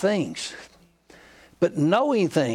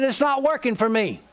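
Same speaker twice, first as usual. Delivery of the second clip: higher-pitched exasperated quote; retold anger; 6 semitones higher than usual. Preacher quoting his friend's frustration with the Bible, mildly angry. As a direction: mimic a fed-up friend's complaint. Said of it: "Another thing I'm mad about".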